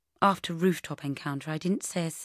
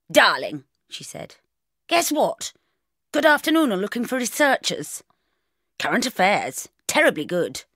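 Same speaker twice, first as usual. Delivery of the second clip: louder, breezy no-nonsense mum; brisk bossy mother; 6 dB louder than usual. Acted. Mother on the phone rallying her daughter, bossy and brisk. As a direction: sweep her daughter's tears aside briskly. Mum rings with job news.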